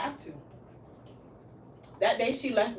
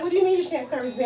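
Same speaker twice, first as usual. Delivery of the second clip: indignant client; 4 semitones higher, 4 dB louder, faster than usual. Retold or imitated. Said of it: "She's like".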